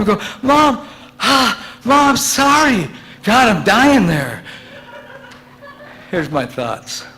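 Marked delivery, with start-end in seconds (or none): 0.4-4.4 high, slow sheepish apology. Retold or imitated. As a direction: apologize weakly, pitched high. Son apologizing.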